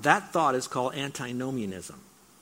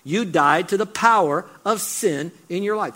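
louder, slower pressing challenge; preacher paraphrasing Paul with rising force; pleading paraphrase; 4 semitones higher, 5 dB louder than usual. Retold or imitated. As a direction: drive it home to the congregation. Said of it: "He's basically saying".

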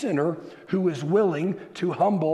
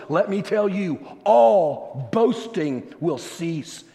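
raised, emphatic preacher's delivery; forceful preaching; 3 semitones higher, 4 dB louder than usual. Real, not acted. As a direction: press each phrase home to the congregation.

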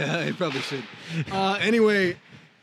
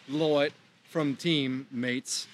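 put-on Australian accent; 2 semitones lower, much slower than usual. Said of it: "Oh, that was Australian".

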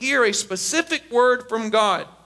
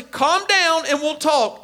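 slow, higher, insistent calm-down; acted parent spelling it out slowly; 4 semitones higher, slower than usual. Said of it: "they get louder, and they say".

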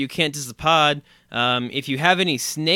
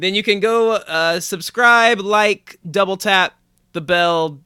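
loud, high, hyped plug; hyped announcer; 6 semitones higher, 6 dB louder, slower than usual. Pretend. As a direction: pump up the call to action.

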